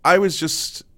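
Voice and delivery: usual speaking voice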